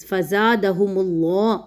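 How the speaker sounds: slow recitation joining فزادہم into اللہ; measured recited phrase; Quranic recitation. Shown as a demonstration. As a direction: draw out فزادہم اللہ as in tajweed. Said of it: "میم کے اوپر جو پیش ہے".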